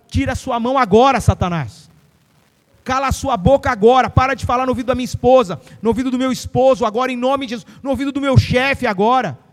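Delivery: loud commanding rebuke of Satan; forceful rebuke. Acted. Preacher rebuking Satan loudly for the congregation. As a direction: declare it with authority.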